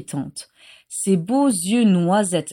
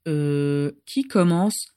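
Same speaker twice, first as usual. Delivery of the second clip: a faltering, unsure question; hesitant voice; 5 semitones lower, slower than usual. Acted. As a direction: hesitate before asking who goes first. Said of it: "demanda-t-il d'une voix hésitante".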